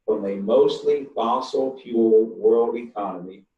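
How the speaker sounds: slow, deliberate, every word laid out; slowly and clearly. Real, not acted. Speaker stressing his point on drilling, slow and clear. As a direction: spell it out slowly so nobody misses it. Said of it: "I'm gonna say this very slowly and very clearly".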